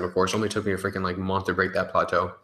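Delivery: dry sarcastic complaint, rushed fast. Acted. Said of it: "this is sarcasm".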